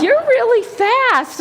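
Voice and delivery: high, loud, drawn-out amazement; gushing praise. Retold or imitated. Runner to a laughing little boy, gushing. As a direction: marvel playfully at a small child.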